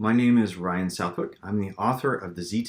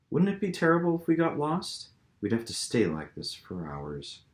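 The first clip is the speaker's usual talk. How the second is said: put-on higher, teasing young woman; playful Anne; 6 semitones higher than usual.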